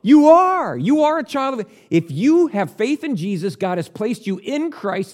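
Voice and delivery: put-on John insisting you are God's child; emphatic reassurance. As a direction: reassure them firmly, no doubt allowed. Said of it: "And he goes".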